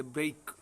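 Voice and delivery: teacher models ब्रेक slowly, ending in "eik"; pronunciation demo. Shown as a demonstration. Teacher shows students how to say ब्रेक, careful model. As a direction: say ब्रेक as "breik" with a clear diphthong. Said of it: "उन दोनों का भी pronunciation है वो इस तरह से".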